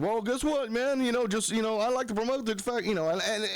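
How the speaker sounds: high-voiced persuasive friend. Friend wants to promote, high-voiced coaxing. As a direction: imitate a buddy making his pitch. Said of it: "and he said".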